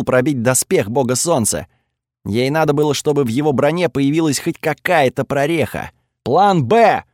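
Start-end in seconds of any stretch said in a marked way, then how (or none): 6.2-7.0 shouted call. Acted. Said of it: "крикнул я ей".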